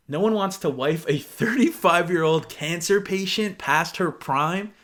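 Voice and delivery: slow, weighted reread of the insult; disbelieving reread. Retold or imitated. Rereading the guy's insult for viewers, slow and incredulous. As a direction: read it again slowly, letting each word sink in. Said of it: "And this man said".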